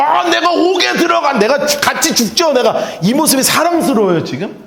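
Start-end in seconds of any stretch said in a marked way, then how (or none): 0.0-2.8 mocking Peter's boast. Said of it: "베드로가 지금 사랑스러워요".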